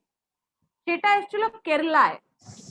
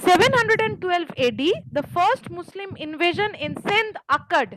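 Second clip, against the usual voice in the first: slow, deliberate dictation; much slower than usual. Shown as a demonstration. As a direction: say it slowly for note-taking. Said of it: "আরেকবার repeat করুন না".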